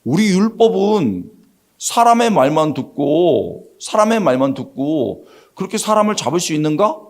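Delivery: slow, measured acted challenge; understated dissenting voice; offhand objection. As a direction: drop in a pointed remark. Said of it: "툭 한마디 던지면서".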